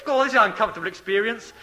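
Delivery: lightly voiced grumbling baby; mock protest of a baby being weaned. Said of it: "it's probably going".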